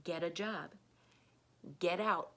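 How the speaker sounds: quick run-together get a, T as a D; fast connected speech. Shown as a demonstration. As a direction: rattle it off like natural speech. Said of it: "If you're saying it fast".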